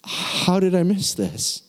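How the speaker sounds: slow, choked-up wonder; real emotion catching on a slow question; getting emotional. Real, not acted. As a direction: say it slowly, trying not to cry. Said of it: "without getting emotional".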